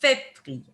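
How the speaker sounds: "Février" with the accented é sounded clearly; acute E sound. Shown as a demonstration. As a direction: say "Février", each é a crisp "ay". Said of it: "making that E sound".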